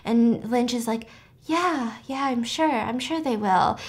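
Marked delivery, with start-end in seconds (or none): 1.4-3.8 soft imitated reassurance; understated, soft-voiced comfort in a retelling; gently reassuring. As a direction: quietly humour her to lift her spirits. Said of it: "trying to lift her spirits".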